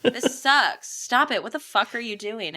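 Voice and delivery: lightly acted exasperation; exasperated protest. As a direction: tell them off, imitating an annoyed woman. Acting out her protest.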